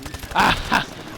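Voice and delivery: short breathy put-on laugh; imitated chuckling burst; acted laughing. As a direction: keep laughing at the captor. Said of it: "I'm just laughing".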